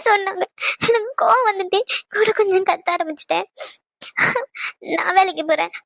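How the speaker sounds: words broken by crying. Real, not acted. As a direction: speak it through tears. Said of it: "சரி, அழுவாத". (அழுகையுடன்)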